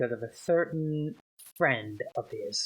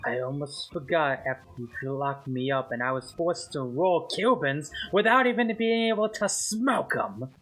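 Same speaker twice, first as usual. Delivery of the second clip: put-on Spanish accent. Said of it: "doing a Spanish accent".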